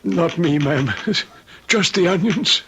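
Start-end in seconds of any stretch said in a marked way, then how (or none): 1.1-2.6 laughing it off. Acted. Laughs off crying over onions.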